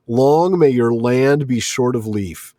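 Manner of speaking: slow, deliberate spiteful curse. Acted. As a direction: lay the curse on slowly. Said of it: "that unpleasantness of the curse".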